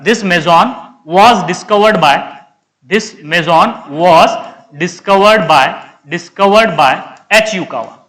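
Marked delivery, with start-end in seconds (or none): 0.0-6.9 very slow, word by word; slow writing dictation. Real, not acted. Teacher writing on the board for students, slow dictation. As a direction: spell it out at writing speed. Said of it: "इधर लिख देता हूं".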